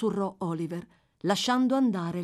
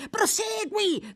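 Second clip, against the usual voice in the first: much higher, slow drawn-out cry; 3 dB louder, much slower than usual. A narrator's reading. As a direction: stretch the word out, pleading. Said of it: "gridò Fagin".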